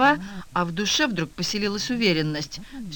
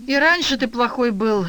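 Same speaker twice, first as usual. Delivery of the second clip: merciless lament; 6 semitones higher, 5 dB louder than usual. A narrator's reading. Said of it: "безжалостно причитала жена".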